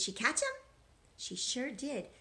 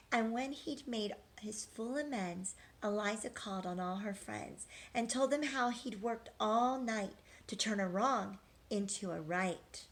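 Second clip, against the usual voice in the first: rhythmic storybook read-aloud; reading to children. A narrator's reading. Teacher reading a rhyming picture book to children, sing-song. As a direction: read the rhymes to the class, lilting.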